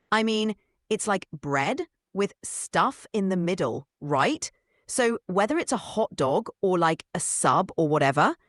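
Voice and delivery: put-on bubbly valley girl, full of "like"; breezy, upbeat valley girl chatter.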